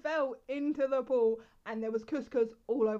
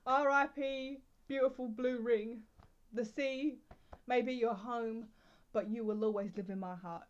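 mock eulogy. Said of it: "Was that too dramatic?".

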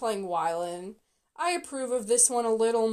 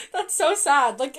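real laugh, louder, in disbelief; laughing dismay; 3 semitones higher, 5 dB louder than usual. Real, not acted. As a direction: laugh breaking into the words. Laughs at the bad casting.

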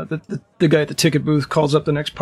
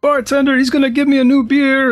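loud, high, furious shout; angry half-orc; 11 semitones higher, 5 dB louder than usual. Acted. Half-orc demanding a new beer, loud angry shout. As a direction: bellow at the table like a bully.

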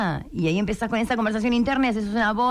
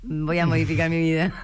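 mock skeptical scoff; 2 semitones lower than usual. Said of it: "también decía".

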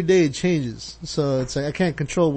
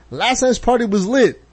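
lightly voiced partygoer, a bit higher and slower; person one; 6 semitones higher than usual. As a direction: read it as an excited partygoer. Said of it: "person one".

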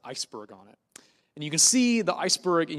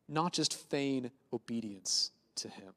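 whisper; 5 semitones lower, 7 dB quieter, slower than usual. Acted. Pastor drops to a whisper.

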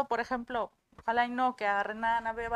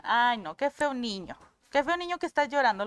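mock scolding; 5 dB louder than usual. Voices parents scolding a crying child.

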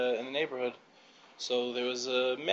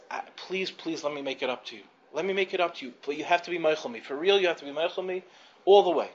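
embarrassed pleading; 3 semitones higher than usual. Retold or imitated. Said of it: "he's so embarrassed".

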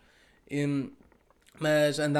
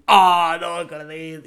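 put-on thrilled teen; 3 semitones higher, 12 dB louder, slower than usual. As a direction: squeal like a starstruck fan. Kid's thrilled reaction on phone. (adolescente eufórico e incrédulo)

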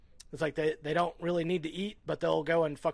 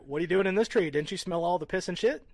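mock angry chimp; 4 semitones higher, 4 dB louder, faster than usual. Chimp confronting intruder.

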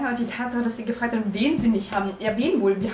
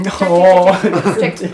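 calling out; 3 semitones lower, 13 dB louder, much slower than usual. Acted. Calling after Jack across yard.

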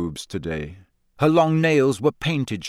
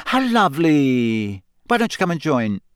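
beaming; 3 semitones higher than usual. A narrator's reading. Rita inviting Harry to join her, beaming.

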